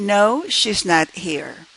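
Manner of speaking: pitch falls on here, statement tune. Demonstrating the answer to a yes-no question, falling intonation. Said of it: "Notice the falling intonation in the answer".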